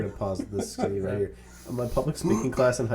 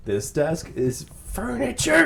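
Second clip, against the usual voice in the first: laughing through it; 7 semitones higher, slower than usual. Retold or imitated. Retold desk line, laughing.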